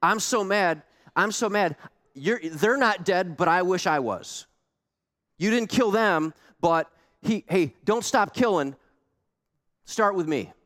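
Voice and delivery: hammed-up angry Jonah; furious Jonah. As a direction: rant like a sulking prophet. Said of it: "Here's what Jonah says".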